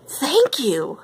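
pleasantly surprised storybook voice; surprised thanks. A narrator's reading. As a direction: say it as if caught off guard. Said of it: "answered a surprised Barbie".

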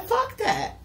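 acted defiance of the client; voicing the client walking away; mock defiant. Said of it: "So you said".

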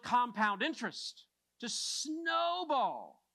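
emphatic, energized sermon delivery; impassioned preaching. Real, not acted. Preacher urging a church toward multiplication, impassioned preaching. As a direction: preach it with rising force and drive. Preaching the compound interest point.

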